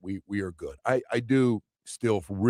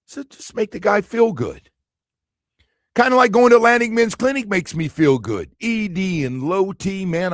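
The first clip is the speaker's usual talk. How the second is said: live ad read; 3 semitones higher, 3 dB louder than usual. Acted. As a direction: sell the clinic like a host endorsement. Host does live ad read.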